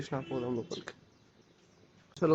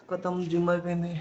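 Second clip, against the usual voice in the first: spent after leg day, louder; drained, breathing hard post-gym; after a workout; 2 semitones higher, 4 dB louder than usual. Real, not acted. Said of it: "కాళ్ళు లేస్తలేవు".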